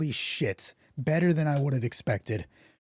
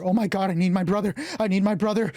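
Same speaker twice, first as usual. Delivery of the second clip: panicked pleading; 3 semitones higher, faster than usual. Acted. Panicking character calls for her brother.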